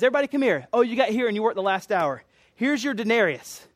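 a hint of a master summoning his crew; master calling out. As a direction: call the workers over, lightly acted. Master calling workers to be paid.

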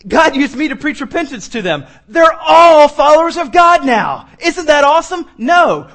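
high, loud mock announcement building to shouting; mock-cheery news turning into loud, angry rejection; sarcastic confrontation. Jonah reporting to hostile Israelites, sarcastic shouting.

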